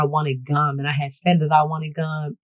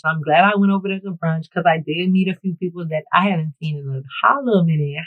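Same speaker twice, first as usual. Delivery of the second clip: ordinary talk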